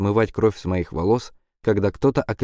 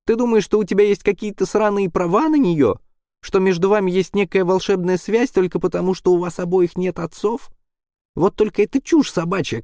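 furious yell; 11 semitones higher than usual. A narrator's reading. Quinn rages at Caplin over the girl, furious yelling. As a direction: spit every word out in rage. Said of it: "орёт Куин".

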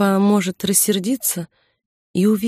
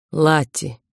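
gentle, slightly lowered voice; tender; 2 semitones lower than usual. A narrator's reading. Victor gently calls the crying woman, tender. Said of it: "Нежный голос Виктора".

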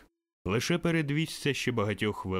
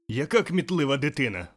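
delighted exclamation; 4 semitones higher, 5 dB louder than usual. Acted. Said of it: "вигукнув Скрудж".

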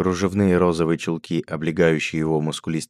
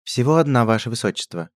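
unflappable; 6 semitones higher than usual. A narrator's reading. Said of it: "невозмутимо ответил лакей".

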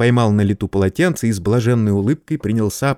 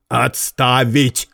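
shouted command; 2 semitones higher, much slower than usual. Acted. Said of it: "крикнул Герат".

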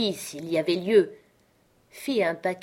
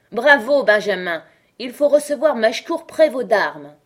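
higher, louder cheering cry; crowd cheering; 4 semitones higher, 7 dB louder than usual. Acted. The drinkers cheer Benjamin's proposal, loud cheer. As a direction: hail Benjamin's proposal with a rowdy shout. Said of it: "s'écrièrent une foule de voix".

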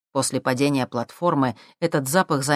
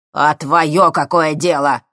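slow, louder retort; snappish professor; 7 dB louder, slower than usual. A narrator's reading. Professor snapping at the thief, slow retort. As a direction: snap it back.

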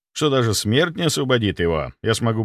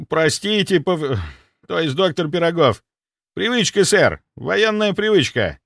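high, eager stammering apology; a dim soldier covering a slip; flustered soldier; 7 semitones higher than usual. Acted. Security chief apologizing, flustered and eager. Sviridov fumbles an excuse.

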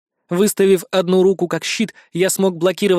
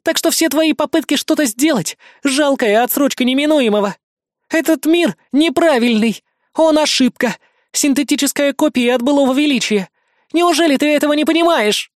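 higher, lightly voiced villainess sneering; villainess taunt; 8 semitones higher than usual. Villainess lecturing Savage, a hint of sneer. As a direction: sneer down at him as doomed.

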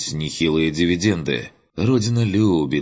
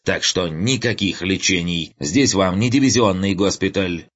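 lightly voiced officer, pitched up and pushy; ranting colonel; 4 semitones higher than usual. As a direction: lay down the rules, self-important.

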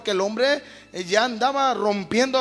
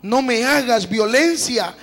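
higher, louder desperate pleading; pleading refusal; 3 semitones higher, 5 dB louder than usual. Acted. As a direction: beg him to stop, frightened. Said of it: "Ella entonces le respondió". (súplica desesperada, más aguda y fuerte)

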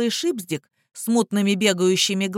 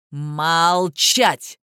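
sharp barked order; steely command; 3 semitones lower, 3 dB louder than usual. A narrator's reading. Lawyer silencing the prisoner, steely bark. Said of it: "лязгнувшего сталью окрика".

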